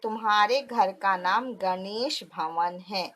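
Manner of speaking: put-on English boy's Hindi. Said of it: "यहाँ पे देखो अंग्रेज बालक".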